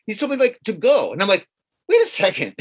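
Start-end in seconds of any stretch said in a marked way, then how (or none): 1.9-2.5 indignant shout. Retold or imitated. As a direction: stop him dead, outraged. Confronting the waiter.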